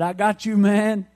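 mock-gloat at a losing rival; retold gloating. Bettor laughing at his rival on the phone, gloating. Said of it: "I started laughing at him".

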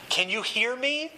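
high, rising worried question; mock-strained, climbing to the end. A narrator's reading. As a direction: push the pitch up as if straining to reach him. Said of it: "his voice strained".

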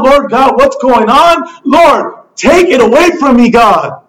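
earnest acted plea to God; pleading. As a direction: reason with God, then beg. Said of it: "we're pleading with God".

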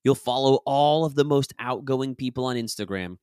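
measured, articulated nonfiction narration; audiobook read. Acted. Author recording a self-help chapter for listeners, measured audiobook read. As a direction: read the chapter out with deliberate emphasis. Reads own book aloud as audiobook.

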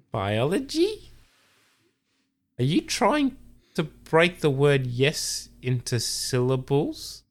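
high, slow, incredulous mockery; mocking Jeff. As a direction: stretch it out high, teasing her. Jeff mocks Shirley's drawn-out word.

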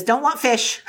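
Gollum's sulky refusal, breaking into a laugh; laughing Gollum line. Acted.

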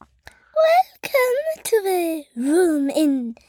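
slow, drawn-out posh British voice. Acted. Child asked by parent to say it posh, slow posh voice. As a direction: draw it out, very upper class. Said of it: "Let's hear posh".

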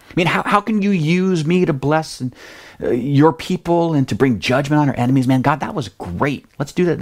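eager, pumped-up Jonah asking what's next; a hint of a hyped young prophet; super stoked. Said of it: "He's super stoked".

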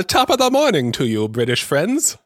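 put-on British accent. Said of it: "if that was a British accent".

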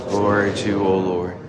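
congregation response. Real, not acted.

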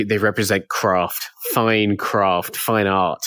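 lightly voiced pretentious critic, slowed; a hint of a languid art snob. Shown as a demonstration. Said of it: "to sound like a very, uh, pretentious critic".

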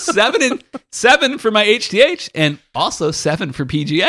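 high, pleased imitation of the golfer. Golfer reports his score, high and pleased. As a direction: announce the score like a proud boaster. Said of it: "I goes".

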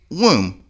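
WOMB rhyming with room; long oo in womb, no b sounded; womb with silent b. Shown as a demonstration. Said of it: "W O M B is pronounced womb".

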